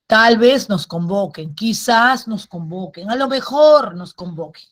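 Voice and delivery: measured teacher's examples, leaning on "Tal vez", "quizás", "a lo mejor"; stress on adverbs. Shown as a demonstration. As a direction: punch the opening "Tal vez", "quizás", "a lo mejor", then ease off.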